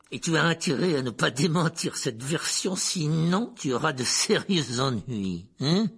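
loud, slow threat; menacing uncle. Acted. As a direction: warn him, leaning hard on the words.

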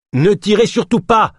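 loud, high urgent plea; urgent call. A narrator's reading. Ganesh shouting at the soldiers not to fire, loud and high. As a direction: shout to stop them firing.

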